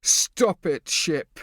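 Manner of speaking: loud, high angry shout. A narrator's reading. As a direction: shout to cut him off. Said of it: "Prosper shouted".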